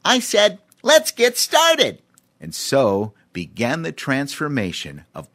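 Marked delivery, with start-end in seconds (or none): 0.0-2.0 high, loud, slow and clear; clearly spoken chimp. A narrator's reading. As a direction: repeat it clearly now the brush is out. Voices Cheemy, clear take.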